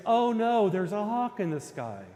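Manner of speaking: loud, high burst of rabbit panic, easing by the end; terrified mock scream. Storyteller voices the rabbit's third outcry, terrified mock scream. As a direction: cry out like a storybook rabbit in terror. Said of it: "terrified of the hawk, screams".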